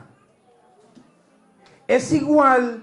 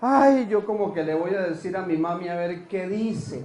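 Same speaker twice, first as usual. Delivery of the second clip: low, mildly whiny lament; mock tearful worry; 4 semitones lower, 4 dB quieter than usual. Preacher mimicking a pregnant woman dreading mami, mock-tearful and low. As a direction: imitate a reluctant, weepy daughter. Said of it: "Y después del embarazo llorando".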